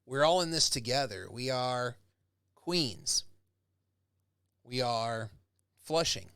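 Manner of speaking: proud, rousing community call; rally the neighbourhood with pride; rallying cry. Shown as a demonstration. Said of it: "Think about the power of community".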